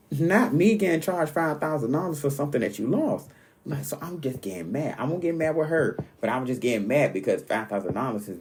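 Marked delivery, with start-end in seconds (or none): 0.1-3.3 mildly indignant, higher-pitched retelling. Retold or imitated. Dreamer to friend who lost the jewelry, indignant. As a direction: act out being mad about an unfair charge. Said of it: "huffing and puffing because I'm like".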